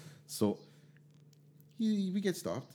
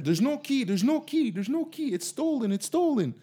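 panicked cop on radio; 14 semitones higher than usual. Retold or imitated.

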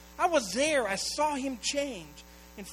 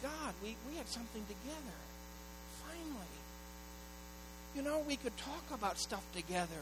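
hushed grieving prayer; 7 dB quieter than usual. Retold or imitated. Retold grieving prayer to God.

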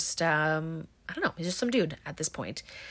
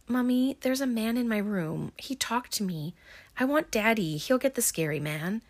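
put-on little girl; 4 semitones higher than usual. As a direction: play a small child telling her mommy. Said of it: "So we see a little girl".

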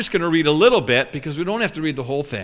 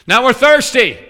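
whiny complaint; 5 semitones higher, 5 dB louder than usual. Acted. Israelites complaining again.

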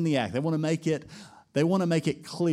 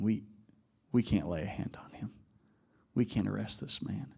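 hushed admission; 3 semitones lower, 6 dB quieter than usual. Retold or imitated. Officers admit they can't arrest.

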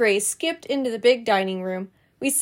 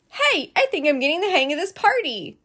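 higher, bright pleased announcement; very happy; 6 semitones higher than usual. Acted. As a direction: beam with pride at finally doing well. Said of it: "I said, very happy".

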